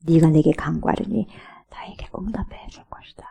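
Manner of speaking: low, hushed divine promise; 속삭이는 하나님. Acted. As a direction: drop low and fade into a whisper. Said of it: "하나님의 나에게 속삭이는 이런 보장을". (낮게 속삭이는 약속)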